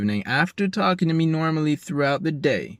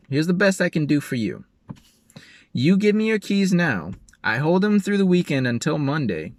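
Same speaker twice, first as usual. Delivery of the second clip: quoting the philanthropist again; 5 semitones higher than usual. Retold or imitated. Retelling the philanthropist's offer to him, mild mock voice. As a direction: repeat her offer with a lift. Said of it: "This is basically a quote".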